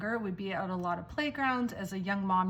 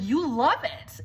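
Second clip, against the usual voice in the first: higher, louder disbelieving question; can't believe his ears; incredulous; 4 semitones higher, 4 dB louder, slower than usual. Retold or imitated. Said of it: "And he's like".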